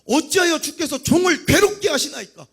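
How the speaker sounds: acted anguish, pushed high and loud; anguished plea. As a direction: cry out a burdened complaint to God. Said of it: "모세가 힘들었으면 십일 절에 모세가 여호와께 여짜오되".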